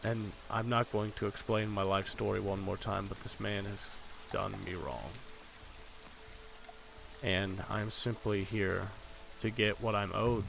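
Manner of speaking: slow, measured stranger with long pauses; wronged stranger, unyielding. Acted. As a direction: spell it out deliberately, patience running out. Game master voices the stranger.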